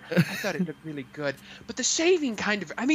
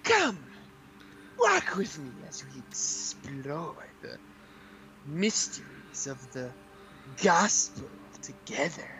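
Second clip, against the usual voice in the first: solemn guide voice; 3 semitones lower than usual. Acted. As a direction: speak like a pompous holy mentor. Voices the Interpreter character.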